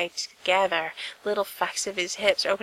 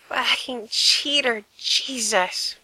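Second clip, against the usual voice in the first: slow, groaned-out curse pitched up; groaning; 3 semitones higher, slower than usual. Acted. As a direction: groan the words out in mock complaint. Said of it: "Frank groaned".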